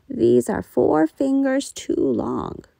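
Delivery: mild disapproval, drawn out; fussing mother. A narrator's reading. Mother frowning.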